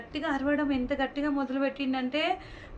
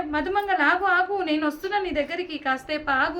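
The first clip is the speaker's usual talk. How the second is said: calling out; 2 semitones higher than usual. Acted. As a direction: call across to stop him. Calling friend to wait.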